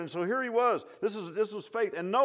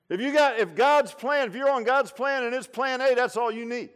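preaching shout; 6 semitones higher, 7 dB louder than usual. Real, not acted. Preacher at full force.

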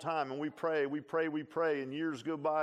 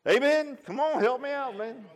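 loud amen call; 7 semitones higher, 5 dB louder than usual. Real, not acted. Calls for a response.

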